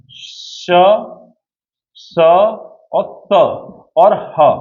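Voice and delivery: "श, स और त और ह" sounded one by one with plenty of breath; slow, isolated "श, स और त और ह", breath released on each. Shown as a demonstration. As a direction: let air out on each of "श, स और त और ह", pausing between. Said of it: "इनमें आपकी हवा ज्यादा निकलेगी".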